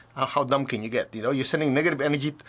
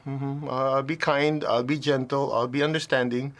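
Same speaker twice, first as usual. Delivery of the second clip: slow soothing placation; slower than usual. Retold or imitated. Placating screaming people.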